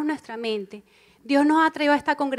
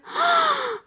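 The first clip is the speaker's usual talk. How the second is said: sharp high gasp of alarm. Retold or imitated. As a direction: gasp as if frightened. Gasp of dismay in quote. (jadeo agudo de susto)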